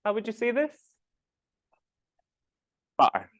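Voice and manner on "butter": "Bar" as Scottish butter, T swallowed in the throat; glottal stop. Shown as a demonstration. Teacher showing a glottal stop, "Bar" with no T. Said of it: "incapable of pronouncing the T's".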